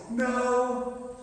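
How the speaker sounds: sharp loud No; flat refusal; blunt no. Pretend. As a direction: snap a hard no. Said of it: "He didn't say that".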